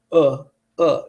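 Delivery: short, slack "uh" sounds; lazy schwa. Shown as a demonstration. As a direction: let UH drop out with barely a mouth movement. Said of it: "It's so lazy".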